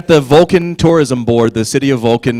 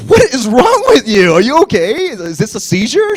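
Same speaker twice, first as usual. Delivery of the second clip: mock alarm; 10 semitones higher than usual. Acts out alarm at shaking friend.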